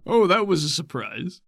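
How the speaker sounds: high, loud laughing amazement; breathless surprise. Acted. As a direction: gasp at the thrill. Bolt after the ride.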